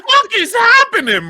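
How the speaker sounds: high, slow, loud exclamation; outraged disbelief. Retold or imitated. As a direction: stretch it out, loud and appalled. Retelling outraged reaction to the accent.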